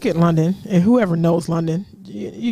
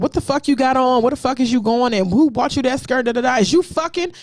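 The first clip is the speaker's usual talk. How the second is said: mildly heated mimicked interrogation, rising at the end; retold scolding; 3 semitones higher than usual. Mother retells father's call to daughter, mildly heated interrogation. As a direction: rattle off the father's accusing questions. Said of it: "he was like".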